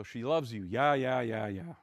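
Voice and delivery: deadpan mock rendition of a pop chorus; tongue-in-cheek chant, trailing off at the end; sarcastic lyric recital. Shown as a demonstration. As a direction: recite the lyric sarcastically, no attempt to sing well. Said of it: "I just did it sarcastically".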